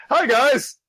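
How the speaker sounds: high-pitched chirpy hello; mock peppy falsetto greeting; excited greeting. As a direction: squeal hello to your friends. Acting cheerful character greeting.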